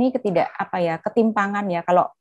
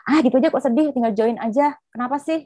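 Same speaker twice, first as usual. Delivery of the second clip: dismissive mom; 5 semitones higher than usual. Retold or imitated. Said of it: "mamanya bilang".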